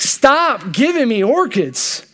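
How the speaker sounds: very slow, weighty "Stop giving me orchids"; God's final word. Retold or imitated. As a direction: draw each word out like a verdict. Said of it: "he's just like".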